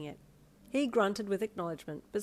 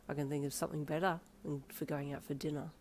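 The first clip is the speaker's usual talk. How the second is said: smirking; 3 semitones lower, 6 dB quieter than usual. A narrator's reading. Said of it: "he smirked".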